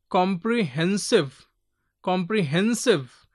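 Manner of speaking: "Comprehensive" with hen punched; stress on hen. Shown as a demonstration. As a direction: demonstrate "Comprehensive", leaning on the third syllable. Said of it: "hen is given little more".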